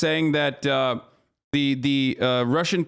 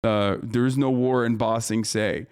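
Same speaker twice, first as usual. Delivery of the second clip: a lower, mocking take on a war denier; 5 semitones lower than usual. Streamer mocking war deniers with a dismissive low sneer. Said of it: "turns around and says".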